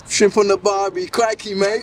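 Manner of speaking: lightly hammed-up Australian accent; mock Australian accent. Interviewer showing how Brits imitate Australians, in a light mock Australian accent. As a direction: tease the Aussie with a cliché in a mock Australian accent. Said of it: "imitate your voice".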